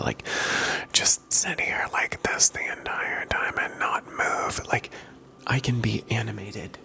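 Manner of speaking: gently voiced, barely above a whisper; soft-spoken voice. Real, not acted. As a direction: speak softly like an ASMR host. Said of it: "talk to you in a soft-spoken voice".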